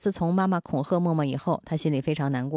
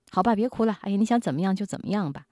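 giving in; 4 semitones higher, faster than usual. Retold or imitated. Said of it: "有的会妥协".

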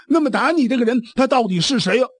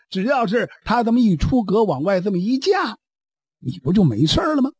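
coaxing, consoling. Acted. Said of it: "先劝一劝他".

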